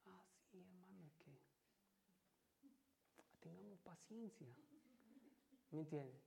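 hushed, whispery imitation of a patient pastor; softly imitated pastor's gentle advice; Pastor Noel. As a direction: counsel patience in a near-whisper. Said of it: "Pastor Noel".

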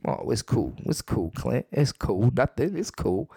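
mock nonchalance, brushing it off; playing it cool. Woman pretending nothing happened to her date, mock casual. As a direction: imitate someone acting like nothing happened. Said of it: "She played it cool, like nothing happened".

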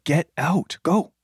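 retold curt send-off; rude dismissal. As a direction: imitate a gruff vendor shooing someone away. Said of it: "Like, in a really rude".

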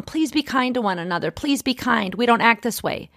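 imitating a weary nagging mum; a hint of a nagging parent; mock nagging. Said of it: "nagging my children all day long".

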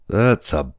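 put-on loud, rough old seaman; old sailor. A narrator's reading. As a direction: warn him like a gruff old salt. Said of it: "said the boatswain".

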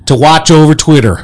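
light Southern cowboy accent, mock lawman. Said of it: "you did a Southern accent".

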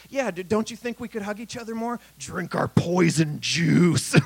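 syrupy ad voice, slowing on the last line; sweet pitch, then the poison punchline dragged out; mock corporate ad. Mocking Coca-Cola ad message.

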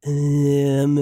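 flat, mumbled mob-boss line, lightly voiced; a hint of a droning Godfather; monotone mobster. Mocking a monotone mob-boss delivery, lightly voiced. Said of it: "like, monotone".

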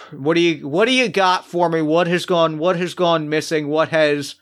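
talking around a vape; words through a mouthful of vapor. Real, not acted. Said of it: "I still have the vape in my mouth".

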